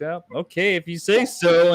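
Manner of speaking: a breezy, credulous okay; mock easy agreement. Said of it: "They're just like".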